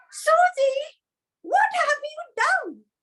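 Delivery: very high, shrill, swooping scream. Showing a storyteller how to voice their mother in the story, screaming. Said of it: "you can raise up your voice and scream".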